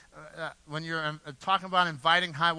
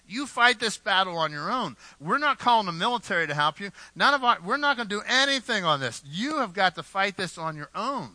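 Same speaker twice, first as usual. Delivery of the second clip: somewhat raised, emphatic brush-off; lightly acted, insistent refusal to help; 3 semitones higher, 4 dB louder than usual. Preacher voicing betrayers leaving Samson to fight alone, emphatic refusal.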